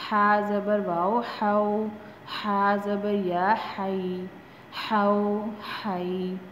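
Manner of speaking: measured teacher's chant, pairs drawn out slowly; patient drill recitation for students; qaida recitation drill. Shown as a demonstration. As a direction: spell each letter, then join the sound slowly.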